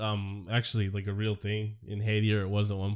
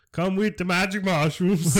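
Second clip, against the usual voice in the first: higher, louder northern English voice; northern English wizard; 8 semitones higher, 7 dB louder than usual. Pretend. Host tries a more northern old English wizard. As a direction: lure them like a northern wizard. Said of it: "a little bit more northern".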